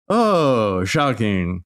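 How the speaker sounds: dry mock surprise; sarcastic shocking. Real, not acted. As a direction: roll your eyes, fake shock. Sarcastic remark on getaway.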